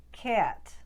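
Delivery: Boston "cat" with eh sliding off-glide; Boston accent. Shown as a demonstration. Coach demonstrates Boston gliding short a. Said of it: "would become".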